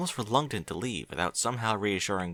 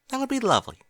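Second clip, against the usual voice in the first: said with a smile; 14 semitones higher, 4 dB louder, faster than usual. Acted. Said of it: "Twilight said with a smile".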